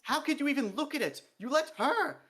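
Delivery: high, loud, furious rant near tears; venomous tirade, sobbing. A narrator's reading. Dee rants to the king about female dwarfs, venomous and sobbing. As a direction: spit every word with venom until it breaks. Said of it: "a word sprayed with so much venom".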